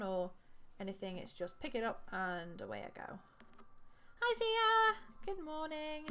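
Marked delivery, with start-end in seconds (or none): 4.2-6.0 cheery greeting. Real, not acted. Greeting a chat viewer brightly.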